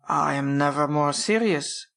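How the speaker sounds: put-on slow, serious German-accented baron; mimicked German accent. A narrator's reading. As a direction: imitate a German baron, slowly and gravely. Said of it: "his carefully mimicked accent".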